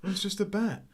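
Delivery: high, loud hammed-up shooing of a bat; mock nonplussed Cage. Reviewer imitating Cage shooing the bat away, hammed-up high. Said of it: "he's fairly nonplussed".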